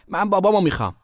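put-on high, loud childish wail of protest; shouting. A narrator's reading. Sister smacked by mother, shouting for her father. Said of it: "فقط داد زد".

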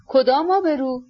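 mildly spiteful, understated exclamation; spiteful cry. A narrator's reading. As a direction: throw back a scornful question, no real shout. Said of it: "با لحنی پر از کینه فریاد زد".

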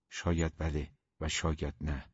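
low, soft noncommittal reply; evasive answer. A narrator's reading. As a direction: leave it open, quietly. Evasive answer, then echoed as question. (جواب سربسته با صدای آرام)

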